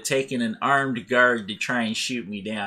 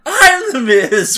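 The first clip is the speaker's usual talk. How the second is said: loud, high, drawn-out catchphrase; mock-grandiose stretched shout; self-important announcement; 12 semitones higher, 11 dB louder, much slower than usual. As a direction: proclaim it hugely, like a wrestler. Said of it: "He said it like that".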